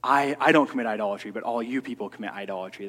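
loud, fast, lofty sneer at all you people; mock proud scorn. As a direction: play a smug man looking down on sinners. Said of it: "not being proud and looking down on everybody else".

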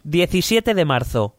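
reading the diary entry as Trump; a light put-on Trump voice. (voz de Trump leyendo el diario)

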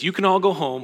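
a hint of a stern ruler dismissing them; Joseph's command. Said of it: "And he says".

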